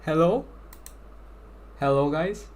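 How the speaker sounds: put-on Hello through a baby voice filter; baby voice changer. Shown as a demonstration. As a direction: test the baby voice mod on the chat. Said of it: "There's a baby voice".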